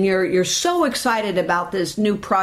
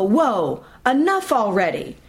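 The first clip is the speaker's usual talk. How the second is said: mock exasperated. Shown as a demonstration. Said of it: "You can say something to yourself like".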